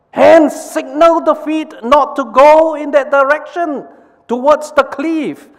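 very high, loud urgent order; urgent brain order. Acted. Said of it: "the brain says to the hands".

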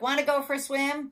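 high, loud invitation; storybook duck. A narrator's reading. Duck asking spider to swim, high and loud. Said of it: "called the duck".

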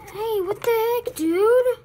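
high, surprised outburst; startled. Acted. Startled teen spotting an intruder, high surprised outburst. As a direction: yelp it out, caught off guard.

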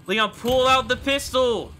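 high, slow, drawn-out shout; urgent yelling. Real, not acted. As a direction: yell the order in panic. Yelling commands at Leon.

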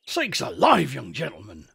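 rustic shepherd taken aback; startled. Acted. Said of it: "said the shepherd in a startled voice".

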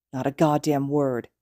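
slow threat through gritted teeth; hissed threat. Acted. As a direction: menace hissed low and slow. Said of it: "he hissed through his teeth".

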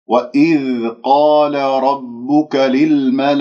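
slow, measured tajwid recitation; Quranic recitation. Shown as a demonstration. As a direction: recite it slowly with care. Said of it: "وإذ هنا لابد أن أبين".

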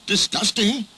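high-pitched exclamation of disgust; outraged. Acted. James hears why trucks laugh, outraged.

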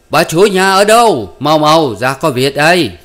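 high, urgent shout; loud calling out. A narrator's reading. Officer rushes in calling the lady of the house, loud shout. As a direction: call loudly into the house in alarm. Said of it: "nói lớn lên rằng".

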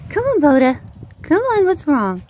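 high, worried coaxing; coaxing pet talk. Real, not acted. Owner coaxes her dog to come, high pet-talk voice.

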